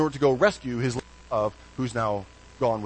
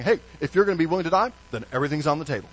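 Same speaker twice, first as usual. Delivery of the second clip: mock pirate; 3 semitones higher, 4 dB louder, much faster than usual. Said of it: "like Captain Jack Sparrow saying".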